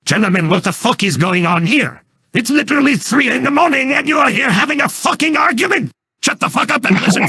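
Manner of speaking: a furious shout at the two arguers; angry scolding. Acted. Fed-up roommate yelling at the arguing pair at night, furious. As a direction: bark them into silence.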